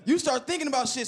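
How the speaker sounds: ordinary talk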